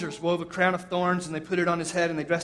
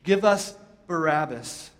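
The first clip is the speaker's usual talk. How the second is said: slow, louder retold crowd shout; 3 semitones higher, 4 dB louder, slower than usual. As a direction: call it out slowly like an angry mob. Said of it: "they shouted in reply".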